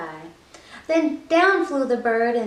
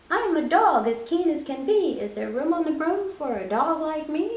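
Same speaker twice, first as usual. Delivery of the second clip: lightly voiced keen dog, a little higher; eager dog; 3 semitones higher than usual. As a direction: ask hopefully like a keen puppy. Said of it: "then eagerly said".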